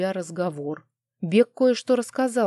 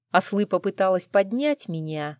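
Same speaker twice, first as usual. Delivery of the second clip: ordinary talk, nothing marked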